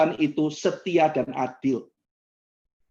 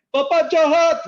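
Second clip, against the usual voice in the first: high, louder tearful accusation; crying child; 10 semitones higher, 6 dB louder, slower than usual. Retold or imitated. Teen crying at the pastor, tearful. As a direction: cry it out like a hurt teen. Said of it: "Nangis langsung depan saya".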